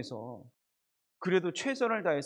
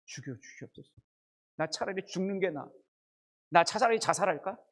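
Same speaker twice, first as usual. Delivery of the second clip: despairing plea; 2 semitones higher than usual. Acted. Preacher voices Jeremiah asking God for death, hushed despair. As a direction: beg under your breath, all hope gone. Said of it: "죽고 싶다는 거야".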